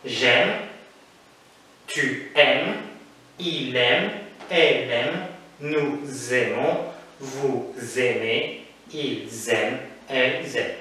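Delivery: "aiment" said like "aime", the e, n and t left silent, "vous aimez" drawn out slowly with a clear final e sound; "nous aimons" and "vous aimez" linked with a z sound and said slowly; repeated pronunciation demo. Shown as a demonstration. Teacher repeating for students how "j'aime", "tu aimes" and "elles aiment" sound, slow and clear. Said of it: "Je répète la prononciation".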